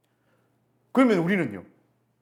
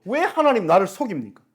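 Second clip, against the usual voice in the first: crying out; 4 semitones higher, 5 dB louder than usual. Acted. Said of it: "하나님 앞에 막 소리를 질러요".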